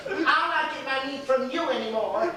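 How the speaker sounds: indignant wife, cracking up; slow huffy scolding with laughter; laughing mock outrage. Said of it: "policeman's wife talking to the butcher".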